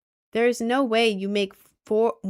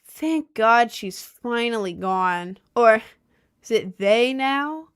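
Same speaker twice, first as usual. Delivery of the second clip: mocking classmate; 6 dB louder, slower than usual. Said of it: "and went".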